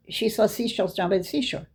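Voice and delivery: "She sells seashells" rattled off lightly; "seashells down by the seashore" run together briskly; quick tongue twister. Retold or imitated. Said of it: "Just say it three times really fast".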